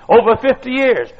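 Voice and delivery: put-on high, emphatic old-man squeak; squeaky old voice. Old preacher telling his years of service, squeaky. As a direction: squeak it out proudly like an old-timer. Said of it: "In a squeaky old voice".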